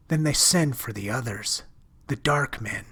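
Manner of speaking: a lightly voiced girl confiding a secret in dread; lightly voiced frightened girl. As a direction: lift the voice slightly for the scared shopgirl. Narrator voices Ella.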